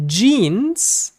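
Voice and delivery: jeans said the Spanish way, as "yins"; Spanish accent. Shown as a demonstration. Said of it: "with a Spanish accent".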